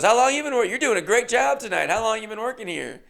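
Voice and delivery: mic in his face, bubbly; host interview. Retold or imitated. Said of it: "She goes".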